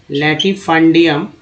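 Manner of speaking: लैटिफंडियम said slowly, syllables clear; slow careful pronunciation. Shown as a demonstration. Teacher to students, slow pronunciation demo. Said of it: "हम बोलते हैं".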